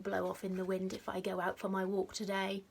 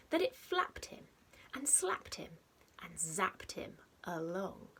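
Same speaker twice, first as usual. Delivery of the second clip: lively storybook read-aloud with a hushed edge; reading to children; slower than usual. A narrator's reading. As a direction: read it like a bedtime picture book, playful and rhythmic. Reads picture book to children.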